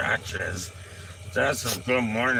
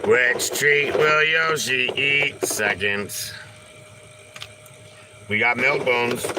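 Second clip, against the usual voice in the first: hammed-up quiz host question; game show host; 3 semitones higher than usual. Game-show style question to viewers.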